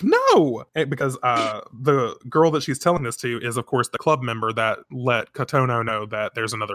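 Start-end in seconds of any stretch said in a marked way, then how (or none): 0.0-0.7 higher, louder cry of no; mock alarmed cry. Kotono reacting to the fortune, crying out. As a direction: yelp it in alarm. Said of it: "she's like".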